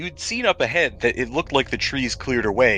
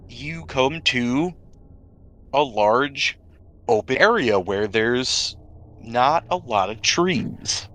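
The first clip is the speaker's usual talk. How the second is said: storyteller building suspense; game master scene setting. Acted. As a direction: set the ominous scene, taking your time. GM describes the destroyed clearing.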